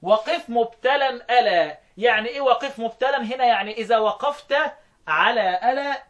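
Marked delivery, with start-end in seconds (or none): 0.0-1.8 very slow, drawn-out chanting of the line; slow verse recital. Shown as a demonstration. Teacher chanting the poem line to his students. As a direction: draw each word out slowly. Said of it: "قال لك".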